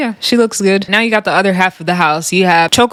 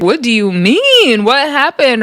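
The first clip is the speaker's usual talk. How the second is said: mock shock; 4 semitones higher than usual. Acting out everybody's shocked reaction.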